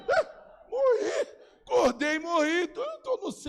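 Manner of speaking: high, loud mock delight at waking in heaven; high excited mock exclamation; joyful surprise. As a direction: exclaim like you just arrived in heaven. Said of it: "Eu vou dizer".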